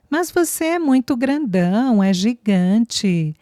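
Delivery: put-on high then slow, stretched childish marvel; a child amazed at how big he is; cute child voice. Little girl marveling at the tall man, cute slow child voice. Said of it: "Todos riram de o jeito da menina falar".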